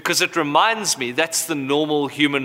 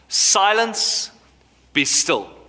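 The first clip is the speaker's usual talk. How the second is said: simple command; 4 semitones higher, much slower than usual. Retold or imitated. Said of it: "He simply commands".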